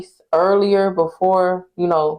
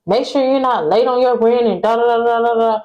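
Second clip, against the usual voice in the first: mock yell in a higher pitch; retold yelling; 4 semitones higher than usual. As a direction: imitate his nagging rant, trailing into nonsense syllables. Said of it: "He yelling at me".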